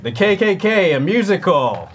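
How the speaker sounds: high, loud mock musical title; mock title announcement. Actor imitates classmate inventing joke tape titles for class, mock announcement. Made-up comic title acted out.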